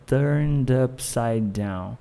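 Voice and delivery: "Turned upside down" slow, run together as one giant block; linked as one block. Shown as a demonstration. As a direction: join turned into upside, no gaps, drawn out. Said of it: "acaba sendo um bloco gigante".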